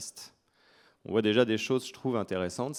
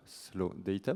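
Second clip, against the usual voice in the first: "slow data" as English "slo dɛita"; soft English "slow data" in a French accent; English accent, French speaker; 5 dB quieter, much slower than usual. Shown as a demonstration. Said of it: "j'ai un accent anglais assez mauvais".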